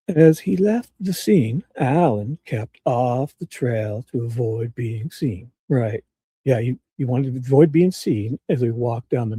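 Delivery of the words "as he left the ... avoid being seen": lightly voiced good old boy, slow and pretentious; a hint of a self-important good old boy reading slowly; Nick's voice. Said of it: "this is how Nick really sounds".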